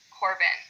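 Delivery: Corbin, first syllable a little stronger; stress on first syllable. Shown as a demonstration. Teacher sounding out students' names, Corbin stressed on its first syllable. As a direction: lean on the COR of Corbin. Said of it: "first syllable just a little bit louder".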